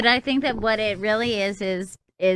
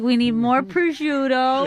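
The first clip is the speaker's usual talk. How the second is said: hammed-up Italian-American mom; Italian impression; 3 semitones higher, 3 dB louder than usual. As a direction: put on a slow Italian-American accent for a mock grocery list. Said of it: "such a racist Italian impression".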